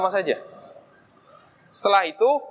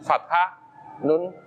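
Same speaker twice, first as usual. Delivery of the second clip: slow reminder; 4 semitones lower, 4 dB quieter, much slower than usual. Shown as a demonstration. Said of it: "untuk ingat-ingat belakangnya".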